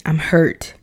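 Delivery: normal talking voice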